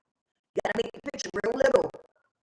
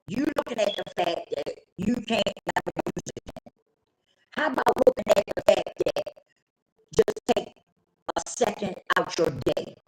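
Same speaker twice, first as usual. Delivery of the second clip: calm counselor; 4 semitones lower than usual. Retold or imitated. Counselor breaking the big picture down for client, calm.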